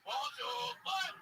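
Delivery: high, slow mock French rapper; a rapper putting on a French accent; hammed-up French impression of a rapper. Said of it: "D M X would sound something like".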